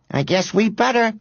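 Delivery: put-on high, light boyish agreement; cheerful agreement. A narrator's reading. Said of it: "agreed Robert cheerfully".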